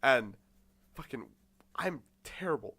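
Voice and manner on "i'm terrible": half-whispered comic wail; mock despair. Student admitting bad duet playing to friends, mock despair. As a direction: confess it in pretend misery.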